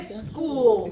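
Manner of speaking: 스쿠 slow and loud with a tense 꾸. Shown as a demonstration. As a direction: push 스쿠 like 스꾸. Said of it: "경음 세게 발음이 들어갑니다". (천천히 세게 스꾸)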